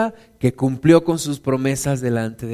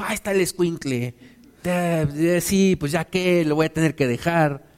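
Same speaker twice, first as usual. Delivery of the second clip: mock reluctance; 4 dB quieter than usual. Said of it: "Esta Ana no llegó y dijo".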